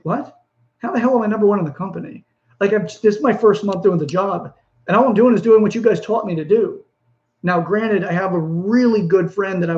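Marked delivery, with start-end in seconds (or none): 0.0-6.8 higher, fast, stunned disbelief; disbelieving surprise. Retold or imitated. New director to his boss, stunned to hear he's number one. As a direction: blurt it out like you can't believe the news.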